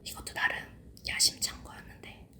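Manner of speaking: soft unvoiced ASMR whisper. Real, not acted. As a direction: whisper close to the mic. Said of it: "에이에스엠알로 하나하나 소리랑 자막으로만".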